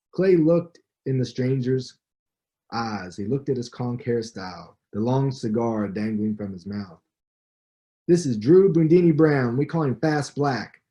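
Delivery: measured reading-aloud voice with lively quoted dialogue; story narration. Acted. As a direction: read the passage like an audiobook narrator. Author reads book passage aloud.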